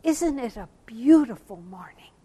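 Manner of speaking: lightly voiced little boy, marvelling; a hint of a child's delight, gently lifted; little boy's wonder. Little boy pointing to the sun, lightly imitated wonder. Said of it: "he said to me".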